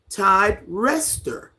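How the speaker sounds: Todd Rester said slowly with a short E; corrected pronunciation. Shown as a demonstration. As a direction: try out Rester as REST-er, drawn out. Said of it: "You say it like".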